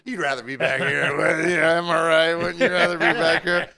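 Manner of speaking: pushy mock coaxing. Bartender pressing Eric to switch, loud pushy coaxing.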